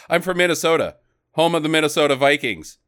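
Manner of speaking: Jake's tough-guy line. Retold or imitated. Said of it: "that's how he says it".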